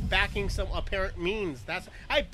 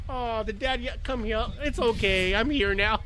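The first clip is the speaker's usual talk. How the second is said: imitating soothing mom; 4 semitones higher than usual. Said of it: "She's like".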